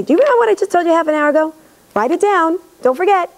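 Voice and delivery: a doting mom nagging her son to remember; playful mom reminder. Retold or imitated. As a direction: pester him lightly and fast, like a doting mom.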